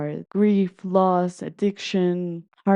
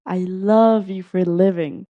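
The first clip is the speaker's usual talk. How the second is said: retold scream; 5 dB louder than usual. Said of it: "someone else screams".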